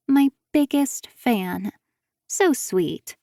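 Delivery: slow, sugary pout; mock sweet. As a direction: coo it with a pout. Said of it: "She pouts prettily".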